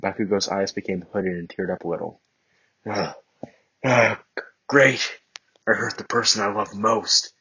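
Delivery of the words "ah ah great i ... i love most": grave voice. Acted. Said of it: "he said in a grave voice".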